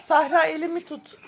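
laughing while being tickled; words broken by giggles. Real, not acted.

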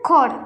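"খট" with a puff of air on the k; careful model "খট", breathy kh onset; aspirated k. Shown as a demonstration. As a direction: say "খট" starting with খ. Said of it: "এখানে এটা হবে".

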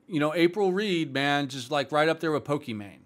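dry, mock-serious praise; sarcastic. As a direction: say it sarcastically, deadpan. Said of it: "I hope you sense the sarcasm".

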